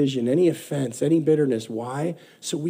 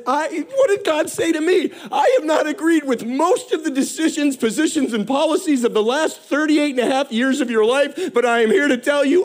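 voice of God; 7 semitones higher than usual. Retold or imitated. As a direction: proclaim it as God speaking love. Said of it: "And he says".

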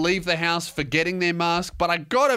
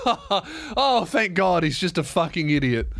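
mock sigh of relief with a laugh; relieved laughter. Onlookers seeing him return masked, imitated relieved laughter. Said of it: "a lot of relieved laughter".

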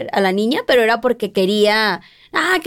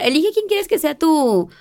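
slow, drawn-out quote; 7 semitones higher, slower than usual. Retold or imitated. Teachers asking her to choose.

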